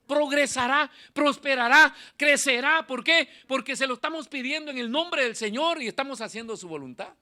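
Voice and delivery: loud, high preacher's proclamation; fiery preaching. Acted. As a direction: preach it out to the whole church. Preaching at full force.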